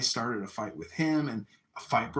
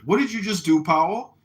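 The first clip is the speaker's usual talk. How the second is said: higher, louder challenge; stern sergeant demand; 8 semitones higher, 8 dB louder than usual. Retold or imitated. Drill sergeant questions recruit Powell, loud and demanding. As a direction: imitate a sergeant calling someone out.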